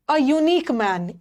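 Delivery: A unique man very slowly, unique as yoo-neek; yoo sound. Shown as a demonstration. Teacher modelling a unique for the class, very slow. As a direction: stretch unique so the yoo is heard. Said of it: "यूनिक में भी य आ रहा".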